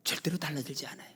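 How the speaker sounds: soft whispered assurance. Real, not acted. Preacher assuring believers, soft whisper. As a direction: breathe it as a secret.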